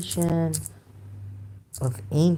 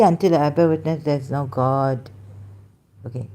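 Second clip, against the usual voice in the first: ordinary talk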